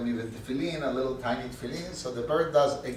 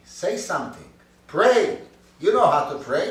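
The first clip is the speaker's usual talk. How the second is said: pleading; 6 semitones higher, 9 dB louder than usual. Acted. Man pleads with silent bird.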